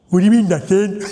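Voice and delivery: comic car advert, baffled customer voice; puzzled advert voice. Shown as a demonstration. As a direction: ask it amazed, half laughing. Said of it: "the advert started like this".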